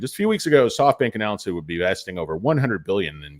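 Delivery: quick, flat article read-out; news read. Acted. Host reading a news article to viewers, fast. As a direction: rattle through the news copy fast.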